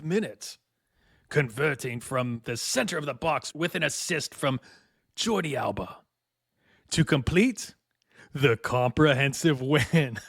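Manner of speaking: grand hammed-up finale reading; lightly theatrical announcer build, ending in a laugh; thespian voice. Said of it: "my thespian voice".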